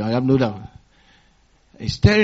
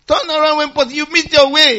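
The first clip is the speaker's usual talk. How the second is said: sat nav voice; 11 semitones higher, 5 dB louder than usual. Retold or imitated. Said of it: "He says".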